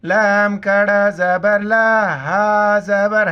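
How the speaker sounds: letter-by-letter spelling chant; spelling drill. Shown as a demonstration. Teacher spelling the word out for children, syllable chant. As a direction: sound out each letter and its vowel. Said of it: "spelling drill".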